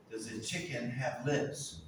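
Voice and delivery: dry, slow rhetorical question; sarcastic no. Shown as a demonstration. Teacher demonstrating a sarcastic no to students. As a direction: ask it like the answer is obviously no. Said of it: "in a sarcastic way".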